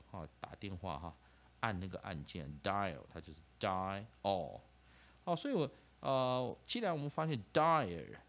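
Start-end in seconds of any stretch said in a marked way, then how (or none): 3.6-4.0 'dial' split into 'die' and 'o'; vowels separated. Shown as a demonstration. Teacher breaking a word down for students, 'dial' in separated vowels. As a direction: pull the two vowels of 'dial' apart. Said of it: "要分开来念".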